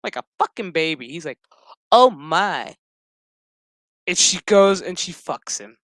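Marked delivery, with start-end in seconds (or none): 1.9-2.7 mock gasp. Voicing the guy.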